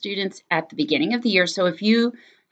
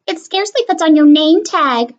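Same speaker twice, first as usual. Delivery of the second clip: high, louder snide jab; teasing; 7 semitones higher, 5 dB louder than usual. Acted. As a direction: poke fun at her name. Classmate mocks her name.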